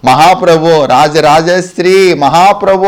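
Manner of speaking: slow, drawn-out mock praise; gangireddu praise-singers. Gangireddu men praising a great lord, lightly imitated. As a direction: lightly imitate a street performer's flattering call. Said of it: "గంగిరెద్దులో పొగులుతా, పొడుగుతూ ఉంటారు".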